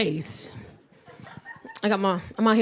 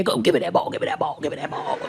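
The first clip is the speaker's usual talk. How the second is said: lightly mimicking toddler; 8 semitones lower, 3 dB quieter, faster than usual. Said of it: "They be in there".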